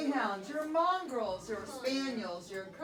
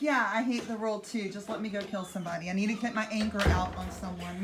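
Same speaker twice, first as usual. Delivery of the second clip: fast, hammed-up grumble; mock anger; 3 semitones lower, much faster than usual. Teacher paraphrasing the second murderer for the class, in fast mock anger. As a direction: rush it like a hothead, jokingly. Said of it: "you're basically like".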